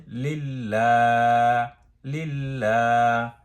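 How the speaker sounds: লিল্লা with the last a held one beat, slowly; one alif lengthening. Shown as a demonstration. Teacher shows the one-alif stretch in লিল্লা. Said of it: "এক আলিফ টানতে হবে".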